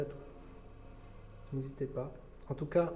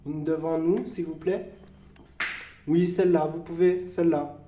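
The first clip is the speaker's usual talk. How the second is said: loud and clear to the dark; calling out; 4 semitones higher, 8 dB louder than usual. Acted. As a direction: ask the spirits loudly to act. Demande aux esprits de fermer. (appel fort aux esprits)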